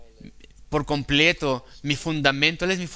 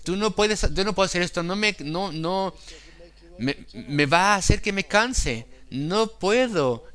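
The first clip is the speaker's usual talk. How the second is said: mock tempter voice, pitched higher; Satan whispering excuses; 4 semitones higher than usual. Preacher voices Satan's excuses to the congregation, a mock tempter, pitched higher. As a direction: play the devil talking you out of it, lightly. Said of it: "te susurrará en el oído".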